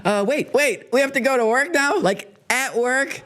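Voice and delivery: mock bewildered voice, pitch climbing in questions; baffled government workers. Government workers told to go to work, mock bewilderment. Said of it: "government workers are, are like".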